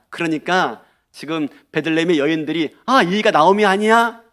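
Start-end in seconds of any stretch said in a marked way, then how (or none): 2.9-4.2 high-pitched, glad recognition; welcoming surprise. Acted. Women of Bethlehem greeting Naomi, glad and surprised. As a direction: exclaim as if welcoming an old friend. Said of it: "자기를 반기는 그 말".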